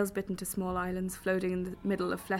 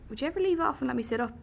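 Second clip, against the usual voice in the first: pleading; 6 semitones higher, 4 dB louder, faster than usual. Acted. Pleading under captor's weight.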